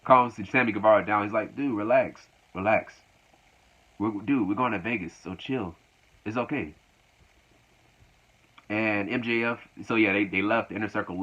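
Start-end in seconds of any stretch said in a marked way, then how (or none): 1.6-6.7 calming. Retold or imitated. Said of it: "calms him down".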